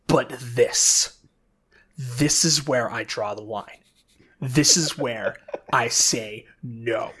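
measured, deliberate rant with pauses; deadly serious, deliberate exasperation; playing it straight. Real, not acted. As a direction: lay down the line firmly, pausing between phrases. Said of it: "I'm gonna play this straight for a second".

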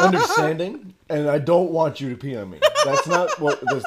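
laughing through the words. Real, not acted. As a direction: protest while cracking up. Laughing while protesting.

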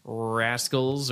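RASCALS with a hard, leaning R; drawn-out hard R in rascals. Shown as a demonstration. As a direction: exaggerate the R that opens rascals. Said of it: "give me an example of a hard R".

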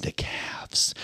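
unvoiced whispered word. Real, not acted. Echoing the word a friend supplied, whispered. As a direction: breathe the word out softly.

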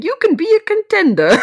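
high, loud mock Brando line; a loud, high Marlon Brando send-up; hammed-up Brando. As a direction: ham up a Godfather-style plea. Brando impression quoted.

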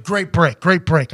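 quick crew congratulation, mildly voiced; matter-of-fact pat on the back; imitated crew praise. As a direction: imitate a producer handing out praise. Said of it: "they're like".

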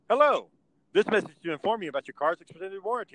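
perky recorded robocall voice; bright automated sales message. Retold or imitated. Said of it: "and it's always".

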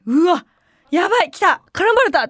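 high, alarmed yelps; inner panic. Retold or imitated. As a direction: gasp like you're about to be picked on.

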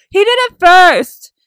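put-on high, slow, loud childish whine; whiny kid excuse. Mocking the other idol's excuse, high childish whine. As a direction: whine it like a kid blaming his sibling. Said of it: "the other dude is just like".

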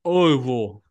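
Louisville squashed to a thick OVL; Louisville swallowed as if through peanut butter; mouth full of peanut butter. Shown as a demonstration. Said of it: "You guys say it like your mouth's full of peanut butter".

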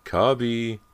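high, loud call for a dog; frantic call. A narrator's reading. James calls frantically for the missing dog, loud and high. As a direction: yell for the lost dog in a panic. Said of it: "James frantically called the dog".

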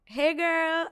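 put-on high, drawn-out girly hello; high-pitched greeting. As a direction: greet your sister in a high lilt. Greets sister on the phone.

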